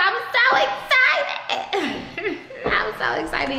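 high, breathless giggly excitement; laughing with excitement. Real, not acted. Showing viewers her new place, laughing with real excitement. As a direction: laugh through it, can't contain the joy. Overjoyed about the new apartment.

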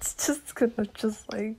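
hushed unvoiced whisper. Fearing revenge in the night, a hushed whisper. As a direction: whisper it like a secret fear.

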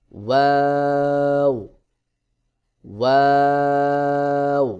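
ওয়াও with both lips rounded, held very long; long, sustained recited ওয়াও. Shown as a demonstration. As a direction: draw out ওয়াও loudly on one level tone. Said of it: "গোল করে".

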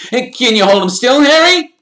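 high, loud thrilled coo; delighted boy's ooh; fascinated ooh. A narrator's reading. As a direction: gasp in delight. Colin wants a photo.

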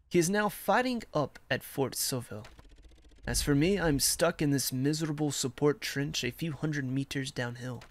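measured letter read-aloud. Acted. Soldier writing to his Ma from Verdun, measured letter reading.

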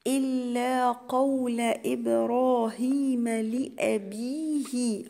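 drawn-out tajweed chant, each syllable held; slow Quran recitation. Shown as a demonstration. Teacher recites the verse to students as a slow chant. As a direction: recite it slowly for the students, holding the long vowels. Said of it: "أكسر الباء والهاء".

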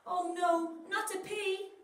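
high, alarmed chorus of veggies; shocked crowd; gasping dismay. Acted. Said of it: "everybody gasped".

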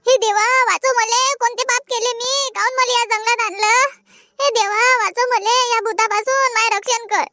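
high, panicked begging to run; terrified pleading. Acted. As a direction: cry for God to save her. Pleading to God. (घाबरून देवाचा धावा)

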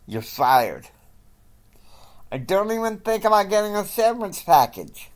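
a Texas oilman boss ranting and firing an employee. Acted. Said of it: "he's ranting".

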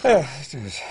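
said it funny. Acted. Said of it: "you said it funny".

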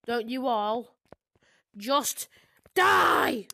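mock villain, slow spaced-out words building to a loud 'die'; villain monologue. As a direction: play a villain pausing for menace before the final word. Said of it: "I tried to do the villain monologue".

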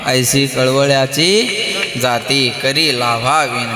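spoken not sung, each word weighed; slow reverent recitation. Acted. Same abhang line now recited.

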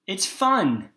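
big high loud fun; excited reveal. Shown as a demonstration. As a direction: burst out the word with joy. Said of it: "I told you it was a fun word".

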